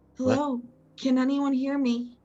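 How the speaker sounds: gentle masculine voice. Narrator voicing someone calling out from within the well to two approaching characters: soft masculine voice. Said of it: "you both hear a soft masculine voice call out from within the well".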